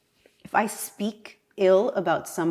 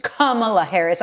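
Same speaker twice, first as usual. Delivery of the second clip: Spanish accent. Real, not acted. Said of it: "I say it with Spanish accent".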